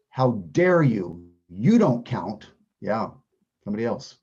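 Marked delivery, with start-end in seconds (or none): 0.1-2.5 mock outrage. Shown as a demonstration. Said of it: "echoing the answer".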